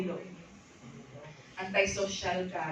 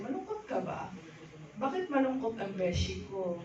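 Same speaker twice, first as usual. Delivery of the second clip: asking friend. Retold or imitated. A friend asking why her beshi looks sad. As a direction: ask like a worried friend. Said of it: "may nagtatanong sa'yo".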